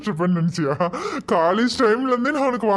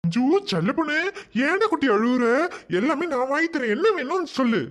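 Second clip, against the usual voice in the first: higher-pitched soothing tone; coaxing a child; 4 semitones higher than usual. Acted. Uncle promising to buy treats, coaxing. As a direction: comfort a crying little one.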